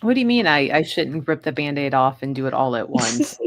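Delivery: mock protest. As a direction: act put out by being told to wait. Jokingly protests the advice to go slow.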